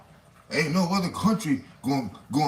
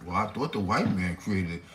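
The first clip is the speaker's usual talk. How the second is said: dumb mock reply; 8 semitones lower, 3 dB quieter than usual. Voicing the dummy's reply.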